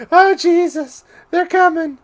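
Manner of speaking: high, loud hammy pirate cry. Acted. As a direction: bellow it like a pirate. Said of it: "using that pirate voice".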